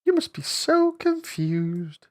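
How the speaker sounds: breathy whisper, slow. Real, not acted. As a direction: whisper along under your breath. Mouthing along to the clip.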